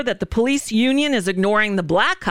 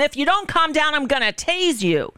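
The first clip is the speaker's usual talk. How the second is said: higher-pitched mock yell of a warning; imitated screamed threat; 6 semitones higher than usual. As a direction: mimic cops threatening, only mildly raised. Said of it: "while they're screaming at him".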